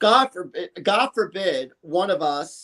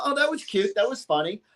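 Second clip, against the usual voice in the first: mild polite praise; 3 semitones higher, 3 dB quieter than usual. Shown as a demonstration. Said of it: "I would say".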